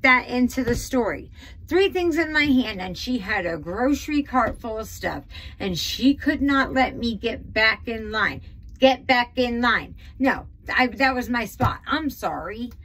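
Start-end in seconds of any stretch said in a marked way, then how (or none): 1.7-12.7 worked up and indignant; heated. Real, not acted. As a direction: get heated retelling the grievance, pitch jumping up at the start. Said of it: "I'm getting so heated up".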